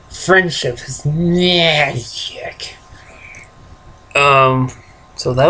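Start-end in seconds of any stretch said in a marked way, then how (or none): 0.1-2.8 slow breathy whisper. Pretend. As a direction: breathe it out slowly. Whispered show slogan.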